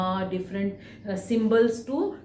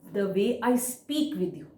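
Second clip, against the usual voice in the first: "the way I speak with you" said evenly, then a clear pause; oral punctuation pause. Shown as a demonstration. Teacher showing students oral punctuation, pausing after "the way I speak with you". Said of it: "How did I do?".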